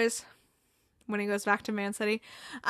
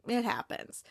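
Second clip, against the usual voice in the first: Roy's signature line; 8 dB quieter than usual. Retold or imitated. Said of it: "Roy just has that patent signature, like, head bobbing along".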